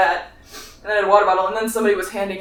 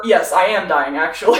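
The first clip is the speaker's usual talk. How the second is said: laughing quote; 2 semitones lower, 4 dB louder than usual. Retold or imitated.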